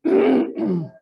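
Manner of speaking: hoarse, voice giving out; raspy, voice barely there; losing voice. Real, not acted. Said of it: "My voice will come back in a minute".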